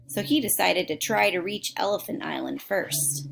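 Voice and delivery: put-on reading a book aloud to kids; steady storybook reading voice; story narration. A narrator's reading. Reads a book aloud to listeners.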